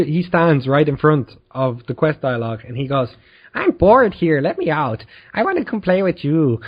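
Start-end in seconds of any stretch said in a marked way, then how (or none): 3.5-6.6 lightly voiced whining game character; bored, pestering attitude. Listener's keeper interrupts the quest dialogue, mildly pestering. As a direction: pester with a slightly raised pitch. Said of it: "this type of attitude".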